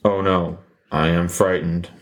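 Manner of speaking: deadpan fake fear; flat, sarcastic fright. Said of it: "That was sarcasm".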